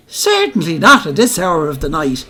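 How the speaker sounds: a bold Dublin widow brushing off the officer; gutty Dublin voice. Retold or imitated. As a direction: belt it out like a Moore Street dealer. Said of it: "says she in the guttiest voice you ever heard".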